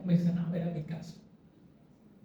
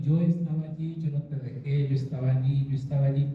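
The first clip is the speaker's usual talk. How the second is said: voice of God; 4 semitones lower than usual. Retold or imitated. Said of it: "escuchaba esa voz como".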